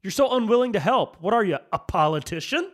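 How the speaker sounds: inner sarcastic rant. Retold or imitated. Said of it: "In my head, I was like".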